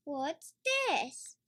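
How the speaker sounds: put-on a small girl wondering aloud; Peppa voice. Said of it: "says Peppa".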